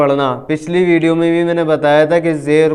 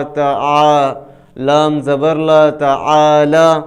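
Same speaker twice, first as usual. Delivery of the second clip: spelling drill. Shown as a demonstration. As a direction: sound out each letter for the learner. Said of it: "کس طرح؟".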